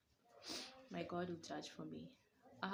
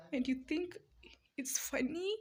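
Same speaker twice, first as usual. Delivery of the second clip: loud, high, slowing on the last question; hurt and furious, hurling it at them; angry outburst; 9 semitones higher, 7 dB louder than usual. Real, not acted. To critics who laughed at her room, an angry loud challenge.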